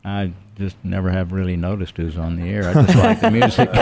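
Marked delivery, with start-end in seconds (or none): 2.7-3.7 put-on high girlish voice. Imitating wife, high.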